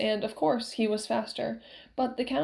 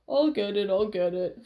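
eager promise. A narrator's reading. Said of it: "Fezzik promised".

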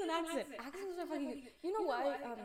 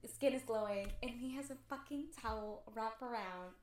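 dreamy hushed fantasy; 4 semitones lower, 6 dB quieter than usual. Pretend. Dreamy fantasy scene told softly.

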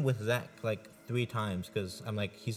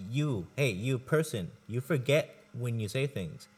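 slightly raised, deliberate mock accusation; single the person out, then stretch the words; emphatic address; slower than usual. Friend confronting someone about forgetting, emphatic and deliberate.

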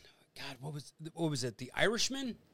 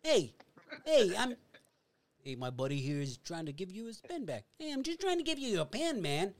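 polite menace exploding into a shout; Joe Pesci pen scene; 3 semitones higher than usual. Retold or imitated. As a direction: Casino pen-stabbing outburst. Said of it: "really great impersonation".

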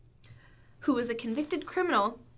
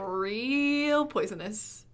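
slow drawl; much slower than usual. Pretend. Repeating catchphrase slowly.

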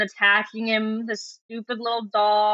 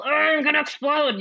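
mock overwrought outburst, a bit higher; lightly hammed-up meltdown; William Roger Tennant; 4 semitones higher than usual. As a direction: imitate someone about to blow up. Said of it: "Very much like, uh, William Roger Tennant".

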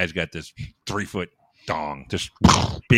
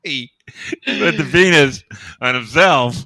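strange speech pattern; 6 semitones higher, 7 dB louder, slower than usual. Acted. Punchline in odd voice.

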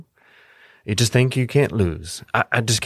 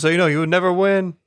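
mild character jab; 8 semitones higher, 3 dB louder, faster than usual. Acted. Character sneers at the game.

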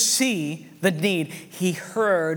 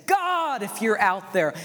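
plea to God; 4 semitones higher, slower than usual. Retold or imitated. Village leader retelling their nightly prayer, calling out. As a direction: cry starting high, then falling. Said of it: "we look up at the stars and we say".

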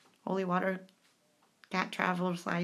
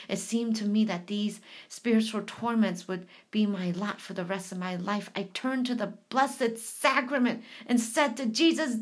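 reading aloud. Acted. Rereads the passage.

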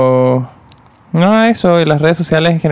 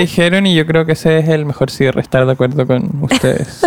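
generic agreeing guy; 3 semitones higher than usual. Pretend. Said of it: "Dice como cualquier güey".

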